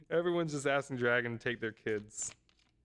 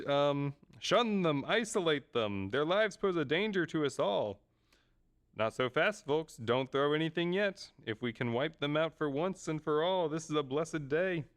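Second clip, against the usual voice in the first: deliberate, declaiming manga villager; a touch of theatrical announcement; lightly acted story character; 4 semitones higher, 3 dB louder than usual.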